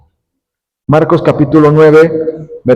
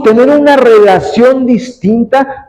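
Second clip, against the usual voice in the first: raised-pitch rhetorical questions; preaching; 8 semitones higher than usual. Acted. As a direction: press the congregation with insistent, rising questions. (predicación insistente, con preguntas en tono alto)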